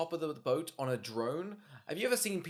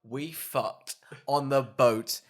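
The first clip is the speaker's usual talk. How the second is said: mock boastful film; 5 dB louder than usual. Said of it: "This film's like".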